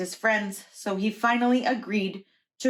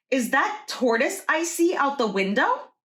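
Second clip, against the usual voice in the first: mild mock yell, higher pitched; Mouse yelling; 5 semitones higher than usual. Mouse calls to Hare through the window, mild mock yell. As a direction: call out a light alarmed question. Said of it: "Mouse yelled".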